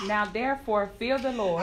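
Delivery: timid soft reading; too quiet. Real, not acted. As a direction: read it meekly, barely audible. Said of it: "read it just a little bit louder".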